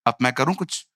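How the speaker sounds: Elijah's calm question. Retold or imitated. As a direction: ask low and easy as Elijah. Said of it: "एलिया ने कहा". (नीची आवाज़ में शांत एलिया)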